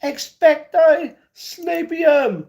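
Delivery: very high, slow, stretched incantation; hammed-up wizard chant, each word held long; mock spell casting. Streamer casting a made-up sleep spell, hammed-up incantation.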